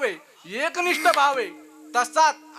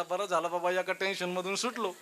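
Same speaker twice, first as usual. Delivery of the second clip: relieved husband; 4 semitones lower, 7 dB quieter than usual. Acted. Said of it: "तो म्हणला".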